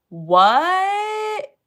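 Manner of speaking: high, loud shocked What. Real, not acted. Streamer reacting to the hoax story, shocked. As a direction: gasp out a stunned What.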